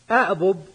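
teacher sounding out the root form; underlying form. Shown as a demonstration. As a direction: spell out أأبب as a-ʔbub, no merging. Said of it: "أصله أأبب على وزن أفعل".

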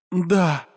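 high moaned yes; moaning yes. Acted. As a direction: let it out as a moan. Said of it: "простонала Сея". (стон)

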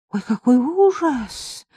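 high, slow, spent groan; catching breath. A narrator's reading. Marika after vomiting into the toilet, catching her breath. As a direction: drag it out, recovering from retching. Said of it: "отдышавшись".

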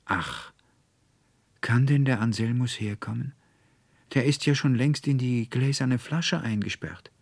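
sighing. Acted. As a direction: sigh it out, sad and strange. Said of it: "und sie seufzte".

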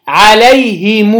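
عليهم said slowly "alayhimuu", final u held; third recited form. Shown as a demonstration. Teacher giving the third Quran reading, عليهم as "alayhimuu". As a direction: stretch عليهم into "himuu". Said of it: "وجه ثالث".

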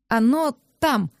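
slow, confiding hush. A narrator's reading. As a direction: let him in on a secret. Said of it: "доверительно показала я место".

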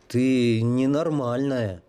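slow, bewildered; stunned. Acted. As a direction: let the disbelief sink in. Stunned at her smile.

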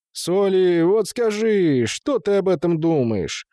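high, drawn-out indignant appeal. A narrator's reading. Gustad turns to the inspector for support, appealing. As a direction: call on an official to back you up. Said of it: "Густат воззвал к нему".

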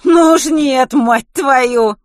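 high, very loud swearing protest; indignant outburst. Acted. Kitty curses back at Gloria's warning, loud indignant outburst. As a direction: explode in refusal.

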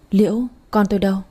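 fast, anxious asking; hurried question. Acted. Mother fast and anxious asking the maid about her baby. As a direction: blurt it out fast, desperate for the baby. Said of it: "Mợ vội hỏi".

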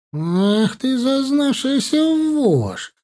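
high, slow, contemptuous drawl; drawn-out snarl. A narrator's reading. Imran drawing his dagger on Malek, slow contemptuous snarl. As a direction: spit it out between gritted teeth. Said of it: "протянул сквозь зубы Имран".

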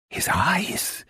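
high breathless whisper of dread; a high, unvoiced cry of fear; horrified whisper. A narrator's reading. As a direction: gasp it out in horror, barely voiced. Horrified repeat.

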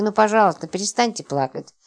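mild plea, softening at the end; pleading. Acted. Роман begging Липочка to stop crying, pleading. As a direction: beg gently for the crying to stop. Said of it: "взмолился он".

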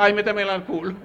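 high camp punchline through a laugh; camp vampire. Retold or imitated. Vampire answering the men with the stake, high and camp. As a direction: purr it like a flirty vampire.

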